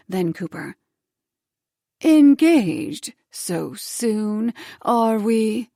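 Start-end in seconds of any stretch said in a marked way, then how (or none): 2.0-5.7 hissed. Acted. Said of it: "she hissed".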